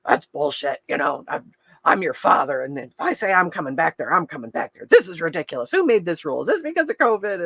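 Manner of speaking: lightly voiced indignant old Navy dad; mild blustering protest as an imitated dad. Dad objecting to hospital visitor rules, mildly indignant. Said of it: "My dad's an old Navy guy".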